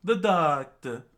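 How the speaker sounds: high, loud, slow cry; impassioned shout. Acted. Chopper staring right at the king, impassioned shout. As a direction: throw it at him loudly.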